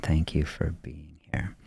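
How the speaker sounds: breathy hushed thank-you; a quiet, intimate whisper of thanks; soft whispered thanks. Real, not acted. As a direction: whisper it gently to the viewers. Thanking viewers softly.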